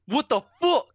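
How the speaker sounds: put-on angry kid yelling at a classmate; angry outburst. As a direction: blow up at the kid.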